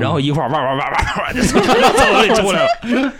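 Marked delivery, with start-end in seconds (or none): 0.5-1.3 dog barking. Retold or imitated. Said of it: "就学狗叫".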